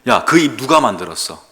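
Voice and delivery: building to a loud rebuking shout; God rebuking. Retold or imitated. God rebukes Moses, building to a shout. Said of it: "이렇게 말씀하시는 거예요".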